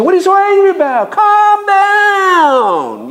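high, loud mock scolding; dismissive comforter. Mocking a friend who tells an angry man to calm down. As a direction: brush off someone angry, loudly.

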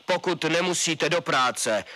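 colonel laying down orders to citizens; stern colonel on radio. A narrator's reading. Colonel addresses nation on radio.

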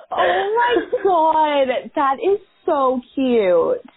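slow, tearful gush; teary, moved. Real, not acted. Friend reacting to the train goodbye story, teary and slow. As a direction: let it drag out, choked up with emotion.

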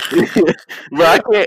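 breaking up mid-sentence; fighting back laughter; stifled giggles. Real, not acted. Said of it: "I'm trying not to laugh".

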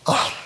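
soft, voiceless mock gasp of awe; overwhelmed oh. Joking about recovering in heaven, overwhelmed soft gasp. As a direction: breathe out a pretend awestruck oh. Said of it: "it'll be like".

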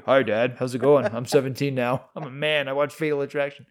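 lightly voiced post-puberty man, no squeak; mock grown-up man. Seventeen-year-old greeting dad after the movie, mock manly. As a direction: play at being a man in an ordinary register. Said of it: "Well, I did after that movie".

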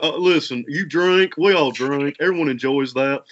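Mister Mackey Doctor Phil hybrid. Shown as a demonstration. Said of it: "combine Mister Mackey and Doctor Phil".

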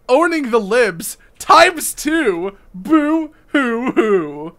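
slow, high mock sobbing boo hoo; hammed-up fake sobbing; fake crying. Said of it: "let's see what he has to say".

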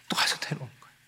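breathy whisper, almost to oneself; hushed resigned whisper. Acted. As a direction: drop to a secret whisper. Hushed aside in story.

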